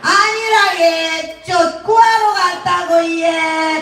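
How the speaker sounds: put-on high, drawn-out singsong Gyeongsang accent; Gyeongsang daughter-in-law. Daughter-in-law explains to mother-in-law, drawn-out Gyeongsang accent. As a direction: protest with a long Gyeongsang lilt. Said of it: "며느리가".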